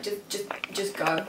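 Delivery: quiet, slow, halting plea; retold tearful plea. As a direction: mildly act out a crying man giving up. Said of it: "Merlin's crying anymore, and he's like".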